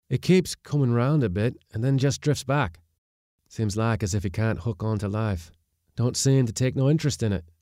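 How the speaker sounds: worried skipper reporting gruffly; skipper's voice. Acted.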